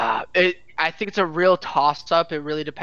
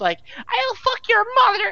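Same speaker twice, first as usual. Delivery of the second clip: put-on very high, shrill, swooping young teen scream. Recalling being a middle schooler in game lobbies, retelling a high-pitched scream. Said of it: "screaming my high-pitched voice".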